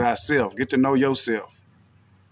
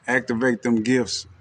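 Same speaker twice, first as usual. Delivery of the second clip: laughing. Real, not acted. Repeats the line with a laugh.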